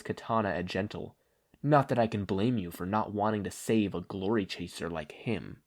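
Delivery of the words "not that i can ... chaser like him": menacing villain. Acted. Stain sneering.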